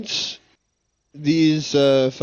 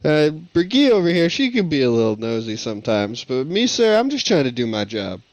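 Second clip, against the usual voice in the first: placating denial. Acted. Player assures the guard he's just doing his job, placating. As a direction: deny it politely, eager to appease.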